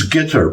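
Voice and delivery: guitar said like GUI-tar, stress on the first syllable; local Qatar. Shown as a demonstration. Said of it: "with the accent on the first syllable".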